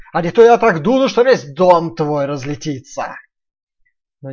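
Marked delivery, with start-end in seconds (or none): 0.1-3.2 loud menacing wolf, slowing. Acted. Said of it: "прорычал опять волк".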